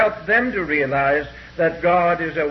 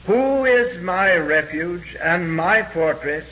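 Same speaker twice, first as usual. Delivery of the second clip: emphatic scripture reading. Acted. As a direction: give each phrase of the psalm weight. Reads Psalm emphatically, slowly.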